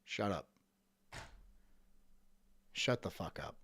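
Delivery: low muttered dismissal. Real, not acted. Muttering to himself.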